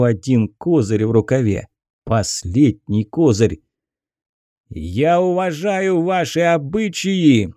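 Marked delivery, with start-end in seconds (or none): 4.7-7.5 slow, high, forceful bark. Acted. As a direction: bark it to silence the crowd. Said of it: "рявкнул он". (рявкнуть)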